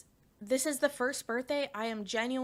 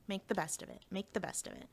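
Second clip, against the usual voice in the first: resigned motto; 7 dB quieter than usual. Retold or imitated. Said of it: "the line that you use in your head".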